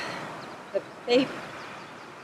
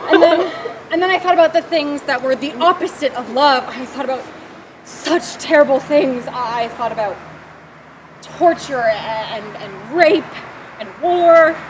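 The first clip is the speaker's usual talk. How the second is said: anguished, louder by the end; mounting distress; 5 dB louder than usual. Acted. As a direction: build from strained recollection to loud anguish on the last words. Monologue recalls dwelling on horrors.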